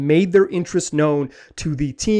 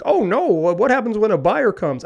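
light, higher mock panic from a fan; worried listener voice; 4 semitones higher than usual. Host mimics an anxious fan writing in, in mild mock worry. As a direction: play a fretting fan who just heard the news. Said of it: "I'm doing that to listener voice".

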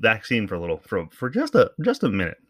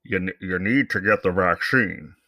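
1 McConnell impression. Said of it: "McConnell came out and said".

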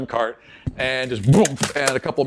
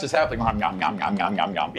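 tasty yum mmm; 8 semitones lower, 5 dB quieter than usual. Retold or imitated. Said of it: "just eating the ones on the ground".

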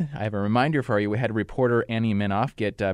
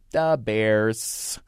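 mock Chicago "da Bears". Shown as a demonstration. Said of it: "kind of consonant sound that you might kind of think from the skit".

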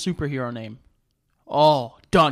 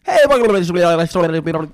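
slow, loud host intro voice; exaggerated announcer welcome; mock podcast intro; 8 dB louder, slower than usual. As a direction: ham up a show opener, drawn out. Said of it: "I do intros really fast".

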